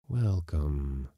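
low, drawn-out greeting; hidden voices. A narrator's reading. Hidden voices greet the crashed man, low and lingering. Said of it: "said the voices".

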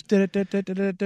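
rapid "da-da-da" news sting; sung-out newsroom alert noise; mock news jingle. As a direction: imitate a breaking-news ticker. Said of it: "breaking news".

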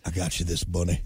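low, lazy Nicolas Cage impression; fake Nicolas Cage. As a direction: mumble it like Nicolas Cage in Con Air. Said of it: "That fake Nicolas Cage accent".

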